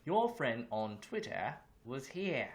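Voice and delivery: slow, put-on Australian accent. Streamer telling a viewer about a visitor, Australian accent. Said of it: "we're in Australian accent mode".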